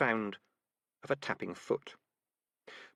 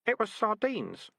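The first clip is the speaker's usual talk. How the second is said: put-on slow, higher sad boy; boy's voice; 11 semitones higher, slower than usual. A narrator's reading. Keith grieves the rat.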